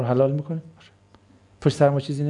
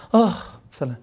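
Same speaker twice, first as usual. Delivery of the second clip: dreamy mock greeting. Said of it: "کلاً سلام".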